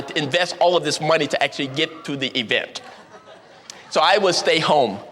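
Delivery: dry, deliberate number-cruncher voice; analytical reasoning. Retold or imitated. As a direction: lay out the calculation coolly, step by step. Green explains cost reasoning.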